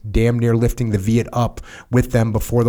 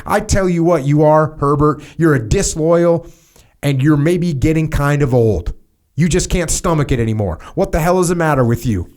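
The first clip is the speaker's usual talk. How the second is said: scolding boss; 5 semitones higher than usual. Acted. Major berates the narrator.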